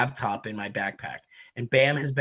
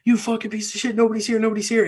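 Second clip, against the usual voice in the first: mock rage; 8 semitones higher, faster than usual. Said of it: "he's like".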